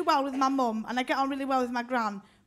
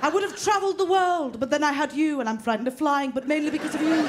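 resentful parent; 3 dB louder than usual. Pretend. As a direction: play the bitter parent blaming the child.

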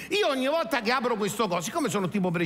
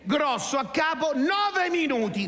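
mock official; 5 semitones higher, slower than usual. Imagined EU pasta protocol announcement.

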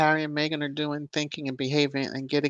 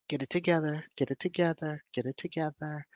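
softer with each repeat, getting a grip on her emotion; telling herself to calm down; 6 dB quieter than usual. Real, not acted. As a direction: quietly pull yourself together, fading. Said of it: "I don't know why I'm a little emotional".

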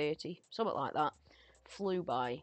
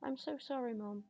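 tearful daughter; 5 semitones higher, 3 dB quieter than usual. Acted. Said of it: "Jane begins to cry".

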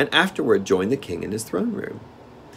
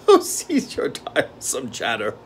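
commanding; 5 semitones higher than usual. Acted. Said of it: "commanded the king, getting angry again".

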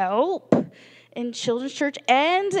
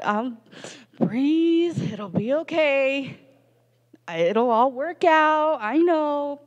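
self-soothing; much slower than usual. Retold or imitated. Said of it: "calming herself down".

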